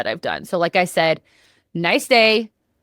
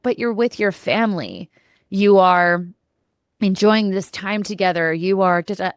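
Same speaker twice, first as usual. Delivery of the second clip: a hint of coaxing party girl; lightly voiced tempting inner voice; giddy party girl. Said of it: "there was that party girl was like".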